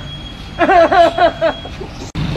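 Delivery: high open laugh; burst of laughter. Real, not acted. Breaking character into a burst of laughter.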